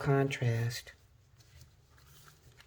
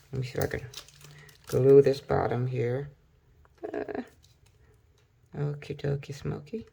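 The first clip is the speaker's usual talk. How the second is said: talking with a pen in her mouth; pen in teeth. Real, not acted. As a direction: speak around a pen held in the teeth. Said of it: "I should not talk with the pen in my mouth".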